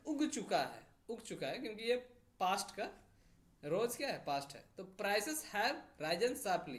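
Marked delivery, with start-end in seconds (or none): 5.0-6.8 very slow, word by word; slow dictation read. Shown as a demonstration. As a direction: dictate slowly. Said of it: "ये present perfect का है".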